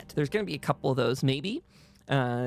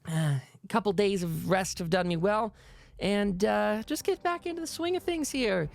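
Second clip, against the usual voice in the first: higher-pitched townswoman voice; lifted character voice explaining town business; Hell's Bells, chatty; 6 semitones higher than usual. Acted. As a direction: raise the pitch, filling friends in. Game master plays Hell's Bells.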